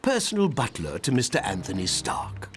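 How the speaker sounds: stiff, proper English butler voice; terrible British accent; bad British butler accent. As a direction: play the posh-sounding butler, overdone. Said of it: "That's a terrible accent".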